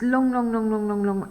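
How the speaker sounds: "long" chained over and over without a gap; string the words together to mimic endless length; run-on repetition. Shown as a demonstration. Imitates a long run-on section.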